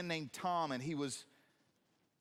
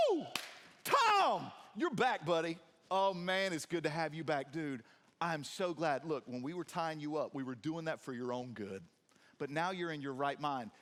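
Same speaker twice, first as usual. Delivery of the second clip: excited welcome; 4 dB louder than usual. Pretend. Preacher voicing townsfolk cheering Tom's return, loud and excited. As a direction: hype up an old buddy who's home again. Townspeople greeting the healed man.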